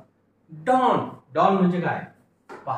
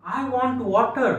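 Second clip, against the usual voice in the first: slow English example; 5 semitones higher, much slower than usual. Shown as a demonstration. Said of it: "तर तो कसं म्हणेल?".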